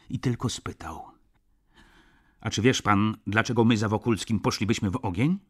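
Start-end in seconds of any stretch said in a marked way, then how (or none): 2.4-5.4 heated challenge. Acted. Lisiecki challenges Szlangbaum, heated.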